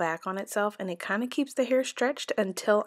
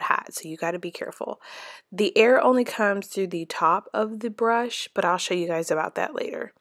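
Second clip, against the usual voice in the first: talking while chewing gum. Real, not acted. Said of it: "sorry for the gum chewing that's about to be in this video".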